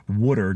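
"water" said as "wooder"; Philly pronunciation. Shown as a demonstration. Stressing the hometown word, "water" pronounced "wooder". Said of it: "W O O D E R".

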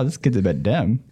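ordinary talk

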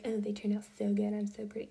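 imitating a vain girl, ending in whisper; mock self-admiring brag. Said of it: "not to be like".

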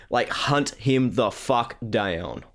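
slow, drawn-out American accent; accidental American accent, slowed down. Real, not acted. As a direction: lean into an American twang on "down". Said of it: "I don't know why I got very American on that".

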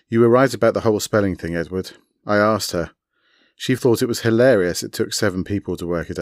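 fast, through a mouthful; mouth full. Acted. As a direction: rattle it off while chewing. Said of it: "through a mouthful of garlic bread".

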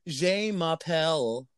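slow mock French accent; french chef. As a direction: put on a French accent slowly. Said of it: "You got any more for us?".

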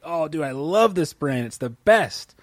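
mildly gushing imitation of a happy customer; play-acted enthusiasm, words stretched; gushing fan. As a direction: rave about it like a devoted fan, drawn out. Voicing an enthusiastic brand advocate.

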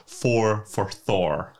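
slowly, each word apart; slow, deliberate. Shown as a demonstration. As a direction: spell it out word by word. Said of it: "Forfar, four for Thor".

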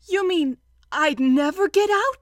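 high, loud, dismayed question. Acted. Pooh to Rabbit about staying stuck, dismayed. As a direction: ask it in rising alarm.

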